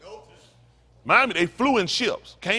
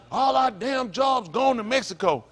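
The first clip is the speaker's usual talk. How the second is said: mock white complainer; 5 semitones higher, slower than usual. Mocking complaints about Mexico jobs.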